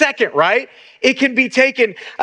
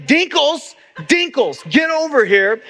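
mild mock yell; 4 semitones higher, slower than usual. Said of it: "their pastor yelling".

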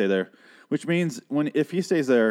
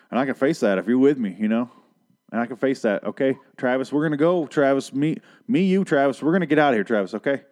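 loud, pitched-up thick Southern accent, hammed up; 2 semitones higher, 4 dB louder than usual. Recapper mocking Madison rallying Travis in a thick Southern accent. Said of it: "she has a severe Southern accent".

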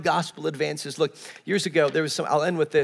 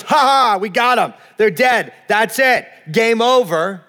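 gloating beast; 3 semitones higher, 4 dB louder than usual. Acted. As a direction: crow over the fallen like a beast. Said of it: "The beast conquers them and goes".

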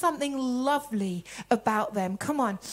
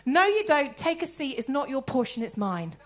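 sassy comeback. Shown as a demonstration. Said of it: "This is now my response".

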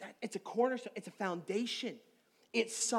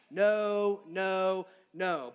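first no louder, then fading down; emphatic no; 4 dB louder, much slower than usual. Shown as a demonstration. Preacher to congregation, fading emphatic no. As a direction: slam the first no and let the rest settle. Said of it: "a very emphatic way of saying no".

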